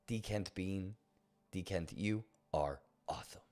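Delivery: whisper. Real, not acted. Whispered shout-out to a viewer.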